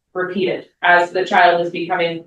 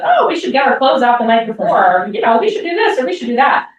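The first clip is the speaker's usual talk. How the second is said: lightly voiced kids, pitched higher; children chiming in; 4 semitones higher than usual. Children answering their mother's question, lightly imitated higher voice. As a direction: imitate eager kids offering suggestions, higher.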